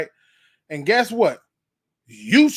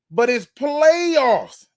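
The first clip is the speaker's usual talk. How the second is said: high, long-stretched PLAYOFFS; hyped; 9 semitones higher, 4 dB louder, much slower than usual. Real, not acted. Host telling people in the back it's playoffs, hyped.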